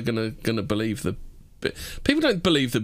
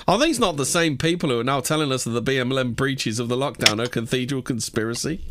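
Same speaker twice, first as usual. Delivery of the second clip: badly faked British reading voice; attempted British accent. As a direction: read it out in a weird attempt at British. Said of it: "I can't do the British's accent".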